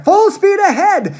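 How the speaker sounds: Mister Wonka shouting to the rowers. A narrator's reading. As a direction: bellow the order to the rowers. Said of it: "shouted Mister Wonka".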